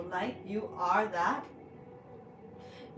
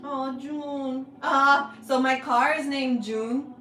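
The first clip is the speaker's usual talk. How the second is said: sudden realization; 4 semitones higher, 8 dB louder, slower than usual. Real, not acted. Sudden realization about car.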